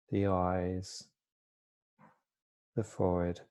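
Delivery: calm, unhurried body-scan guidance with long pauses; soft-spoken mindfulness teacher, easing each phrase down; guided meditation. Real, not acted. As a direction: gently guide listeners into stillness, pausing between phrases.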